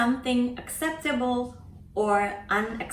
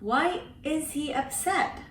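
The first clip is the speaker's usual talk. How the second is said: higher, puzzled asking; astonished question; 5 semitones higher than usual. Shown as a demonstration. Teacher translates with a surprised question. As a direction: sound surprised by it. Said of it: "expression of astonishment".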